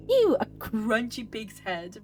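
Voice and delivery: slow, drawn-out strange voice; odd put-on voice. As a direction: speak the pig's head line in an odd, slow voice. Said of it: "Why are you talking like that?".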